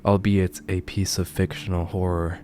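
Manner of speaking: measured, solemn true-crime storytelling; grave storyteller with weighty pauses; ominous horror narration. A narrator's reading. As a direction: narrate a dark case, letting phrase endings sink.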